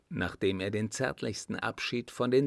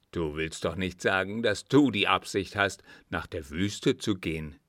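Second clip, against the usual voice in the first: lightly voiced disbelieving friend, a little lower; incredulous friend; 3 semitones lower than usual. Friend questions the planned desert journey, lightly incredulous.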